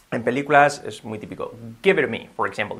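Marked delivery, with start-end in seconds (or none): 1.8-2.3 "Give it to me" linked as "give-eru-me"; quick song-lyric style linking in "Give it to me"; said very fast. Shown as a demonstration. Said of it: "Dicho muy rápido".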